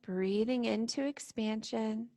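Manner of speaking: calm, unhurried meditation guide with long pauses; guided meditation. Real, not acted. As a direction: gently lead them into stillness and breath. Leads guided standing meditation.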